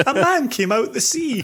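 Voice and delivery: high, savouring every word of the phrase; mock dramatic repeat. Shown as a demonstration. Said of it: "I like the way that's phrased".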